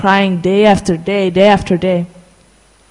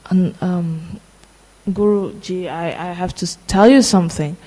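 hesitant, quieter, halting sad confession; 5 dB quieter than usual. Retold or imitated. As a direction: say it softly, dreading the news. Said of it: "in a very sad voice".

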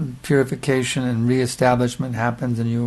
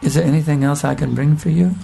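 very sweet voice; 2 semitones higher than usual. Retold or imitated. Famous sannyasi offering a young brahmachari more food, lightly sweet and tender. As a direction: ask it sweetly, like a host pressing more food on a guest. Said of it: "he says in a very sweet voice".

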